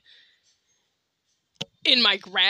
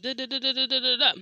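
mocking the uncle. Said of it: "he'll be like".

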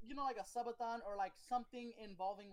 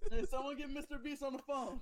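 loud, higher call-out; 6 semitones higher, 5 dB louder than usual. Pretend. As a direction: holler it to the room. Calling out for MrBeast.

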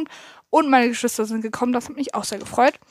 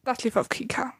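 whisper; 8 dB quieter than usual. Real, not acted. Muttered side remark.

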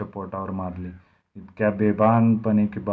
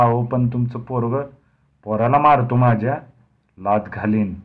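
higher, louder, stammering with fright; frightened stammer; 3 semitones higher, 8 dB louder than usual. Acted. Shaken Dnyanu stammers at the drunk giant, higher and louder. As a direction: stumble over the words in panic. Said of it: "चाचरत म्हणाला".

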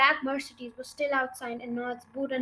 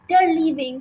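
urgent cry; 4 semitones higher, 8 dB louder than usual. A narrator's reading. Child running up to Miss Honey, crying out. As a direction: burst out with it, raised and loud. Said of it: "she cried".

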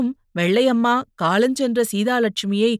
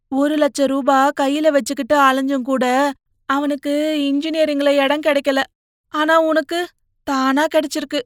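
put-on gently persuading older sister, higher voice; coaxing elder sister; 5 semitones higher, 4 dB louder than usual. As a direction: lean in and coax your little brother. Sister counsels her brother. (தம்பியிடம் கெஞ்சி அறிவுரை சொல்லும் அக்கா)

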